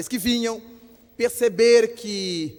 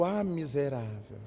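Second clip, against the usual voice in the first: soft, low stunned exclamation; hushed astonishment; 8 semitones lower, 12 dB quieter than usual. Retold or imitated. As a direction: gasp it out in disbelief. Recognizes the supposedly dead friend. (espanto abafado)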